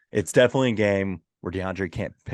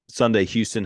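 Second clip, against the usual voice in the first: loud promo announcer; monster truck ad; 4 semitones higher, 5 dB louder than usual. Pretend. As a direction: hype it like an ad. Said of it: "Sunday, Sunday".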